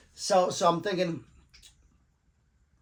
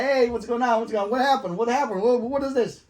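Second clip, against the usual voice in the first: surprised; 8 semitones higher, 4 dB louder than usual. Retold or imitated. Cops greet him at station.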